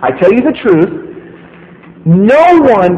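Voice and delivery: earnest insistence, leaning in; emphatic. Retold or imitated. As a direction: press it home as serious business. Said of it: "he's emphasizing in this statement".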